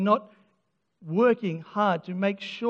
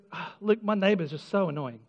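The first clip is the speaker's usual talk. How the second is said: brother complaining; 3 semitones higher than usual. Retold or imitated.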